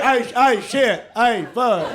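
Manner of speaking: lightly hammed-up belt strain; mock racist guy struggling. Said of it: "Every, every race".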